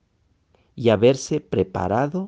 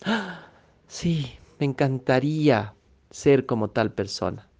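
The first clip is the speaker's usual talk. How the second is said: mock longing sighs; 2 semitones higher than usual. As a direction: act out a wistful dreamer sighing over what others have. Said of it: "Suspira y dice". (suspiros exagerados de soñador, en tono de burla)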